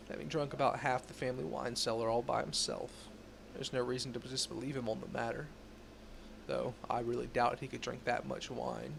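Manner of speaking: put-on old gumshoe voice; hard-boiled detective narration; noir detective. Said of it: "It's like the old gumshoe voice".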